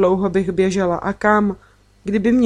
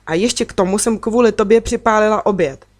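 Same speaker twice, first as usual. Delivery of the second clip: mild mock shout; 2 semitones higher, 3 dB louder than usual. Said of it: "křikla na mě".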